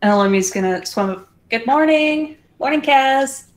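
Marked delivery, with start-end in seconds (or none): 1.5-3.4 higher-pitched mock morning greeting; cheery greeting. Elomi swims up to greet Kaz at the book, cheery greeting. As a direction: chirp a good-morning hello.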